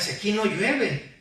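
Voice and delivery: high-pitched mock protest; mock jeering. Crowd scoffs at Noah about rain, mock jeering. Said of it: "toda la gente le gritaba".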